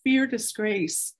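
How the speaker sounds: emotional scripture reading. Real, not acted. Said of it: "I'm probably gonna get emotional".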